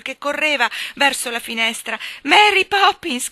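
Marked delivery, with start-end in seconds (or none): 2.2-3.3 high, loud, drawn-out call; piercing child's shout; shrill cry. A narrator's reading. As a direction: cry out sharply after someone leaving. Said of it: "Un acuto grido proruppe".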